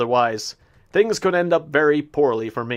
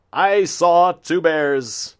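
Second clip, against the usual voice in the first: slow dramatic; 3 semitones higher, 3 dB louder, much slower than usual. Real, not acted.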